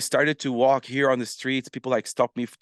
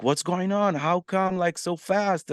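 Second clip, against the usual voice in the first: high, incredulous question; astonished callers; 8 semitones higher than usual. Retold or imitated. Influencers phoning about his sudden fame, high and amazed. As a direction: sound amazed at how fast it blew up.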